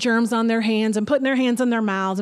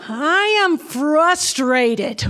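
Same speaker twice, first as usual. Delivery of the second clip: put-on slow, raised, louder little-boy complaint; mock toddler declaration; 4 semitones higher, 4 dB louder, much slower than usual. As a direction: hands on hips, announcing it with a laugh. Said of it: "and he goes".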